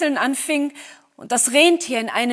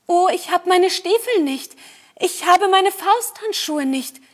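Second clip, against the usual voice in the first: high-pitched anxious call; crying out; 6 semitones higher, 3 dB louder than usual. A narrator's reading. Little Gerda calling after the running reindeer, high and dismayed. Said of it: "rief die kleine Gerda".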